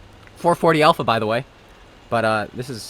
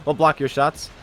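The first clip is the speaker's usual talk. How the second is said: mock light tank; 5 dB louder than usual.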